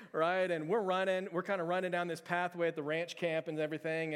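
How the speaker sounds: ordinary talk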